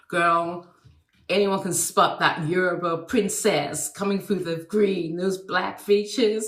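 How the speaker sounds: lightly imitated American accent; half-hearted American accent; Billy Dee Williams. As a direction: attempt an American man's line without really managing the accent. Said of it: "I can't do an American accent".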